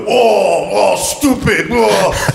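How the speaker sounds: high-pitched, scandalised "oh"s; mock disapproval. Berlin crowd shaking their heads at a scooter rider, mock disapproval. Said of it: "just shaking their heads and going".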